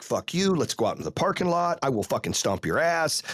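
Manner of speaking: retold losing it. Coach challenges rival to the parking lot, retold anger. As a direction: retell a furious threat at conversational volume. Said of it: "lost my shit".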